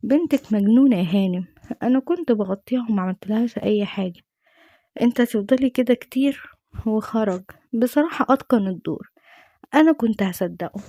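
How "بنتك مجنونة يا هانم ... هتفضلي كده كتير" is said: lightly acted cool, dismissive father; understated cold denial; retold coolness. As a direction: answer coolly, as if nothing happened. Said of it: "وبابا بيرد ببرود".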